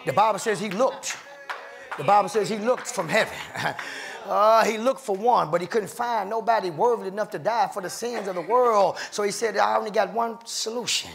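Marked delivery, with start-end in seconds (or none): 4.2-11.1 driving sermon cadence with hard breaths between phrases; fervent preaching. Real, not acted. Preacher rousing the church about grace coming down, fervent. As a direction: preach it with punchy, rhythmic force.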